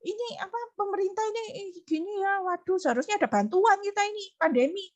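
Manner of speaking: lightly acted high-pitched griping; mock grumbling. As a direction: imitate someone moaning about everything. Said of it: "ada apa-apa ngomel".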